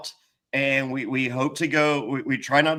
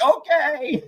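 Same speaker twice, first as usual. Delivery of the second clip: high, tight okay; strained okay; 11 semitones higher than usual. Retold or imitated. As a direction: force out an okay while panicking. Answering people, freaking out.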